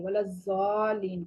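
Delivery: الضالین with ض read as a plain ز; wrong tajweed. Shown as a demonstration. Teacher repeats the wrong reading of the verse. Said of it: "ضاد کو ہم نے زا پڑھ لیا".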